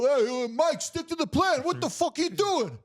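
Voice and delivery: very high, strained mock shout; hammed-up squealing alarm at a partner; frantic robber. Robber urging his partner back to the plan, frantic mock shout. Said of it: "he go, he go".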